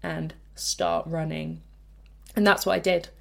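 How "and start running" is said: slow, deliberate order to yourself, mildly angry; angry self-command. Retold or imitated. Inner voice ordering a quitting runner back, angry. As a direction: spell it out word by word, restrained anger. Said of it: "got really angry and was like".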